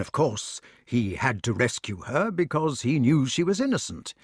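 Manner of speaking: a king talking himself into hope; lightly voiced cheerful Arthur. Arthur's hopeful plans.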